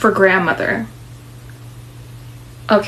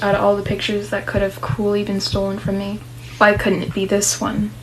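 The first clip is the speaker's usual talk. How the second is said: story narration. A narrator's reading. Heroine reflecting on lost memories, subdued narration. Reads the inner narration aloud.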